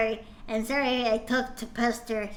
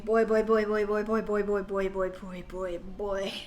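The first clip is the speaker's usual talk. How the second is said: fading exasperation; 4 semitones lower than usual. Real, not acted. Repeated boy fading out.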